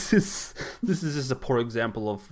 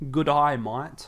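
broad Aussie "good eye, mate", louder; exaggerated Australian; 2 semitones higher, 5 dB louder, much slower than usual. Shown as a demonstration. Podcaster teasing his mate with a broad Australian greeting. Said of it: "that's how you sound Australian".

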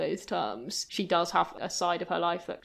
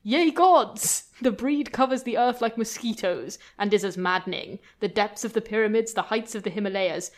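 pompous outraged rant; 2 semitones higher, 5 dB louder than usual. Retold or imitated. Radcliffe berates Amelia in the museum, pompous and loud. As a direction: rage at the whole British female breed. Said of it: "And then he interjects".

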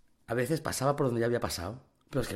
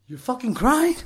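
much higher, louder jeering question; mocking taunt; 11 semitones higher, 8 dB louder, slower than usual. Young inmate taunts crying tough guy, loud and jeering. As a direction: rub it in his face.

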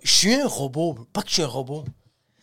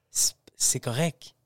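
chuchoté; 5 semitones lower, 6 dB quieter, slower than usual. Retold or imitated. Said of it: "je fais".

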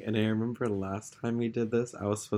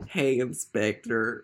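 slow, drawn-out "Hey, Inspector" in the deputy's own voice; original Matthews voice; much slower than usual. Acted. Deputy greets the inspector, drawn out slowly. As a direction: stretch it out as the old Matthews. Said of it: "We're gonna do original".

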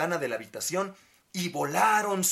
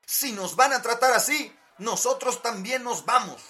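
higher little toy voice; toy furniture voice; 8 semitones higher, 4 dB louder than usual. Acted. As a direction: speak as a tiny piece of furniture, higher. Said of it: "dijeron los muebles de la casa de muñecas".

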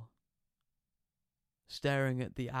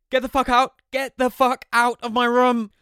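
wailing yell; 12 semitones higher, 16 dB louder than usual. Acted. Son wailing at his mother to leave. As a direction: wail at the top of your lungs. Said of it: "I just carried on wailing".

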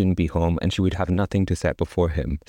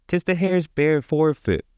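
scoffing wife; 7 semitones higher than usual. Acted.

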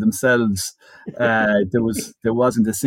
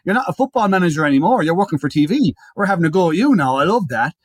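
teasing laugh; 4 semitones higher than usual. Retold or imitated. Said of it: "he's laughing".

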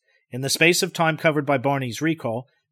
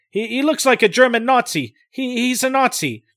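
alarmed; 9 semitones higher, 5 dB louder than usual. Acted. Alarmed realization.

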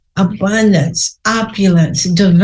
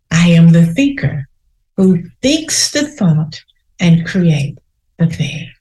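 firm affirmation. Shown as a demonstration. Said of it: "Say that to yourself three times".

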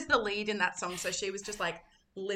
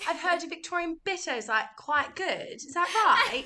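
high, louder fake British accent; put-on British accent; 7 semitones higher, 4 dB louder than usual. Girl pretending to be British about beer, fake British accent. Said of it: "pretend to be British".

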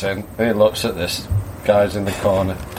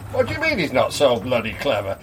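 quick, lower-pitched query; puzzled challenge; 4 semitones lower, 4 dB quieter, faster than usual. Acted. Customer queries landlord's put-down of the dog, puzzled.

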